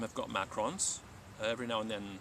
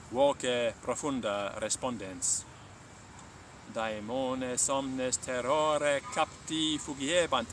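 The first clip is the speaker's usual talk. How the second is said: measured, clear storytelling read; story narration; 2 semitones higher, slower than usual. A narrator's reading. Latin teacher narrating a Buddha legend to listeners, calm storytelling. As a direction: tell the legend slowly and gravely.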